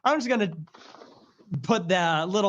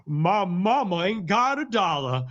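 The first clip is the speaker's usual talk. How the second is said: speech mimicry; 4 dB louder than usual. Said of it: "her name from Alabama said".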